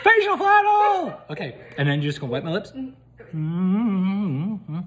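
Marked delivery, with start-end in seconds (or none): 0.0-1.2 squealing high and slow through a laugh; excited. Real, not acted. Giggling shriek about the facial flannel. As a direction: shriek it with glee. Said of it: "couldn't control myself".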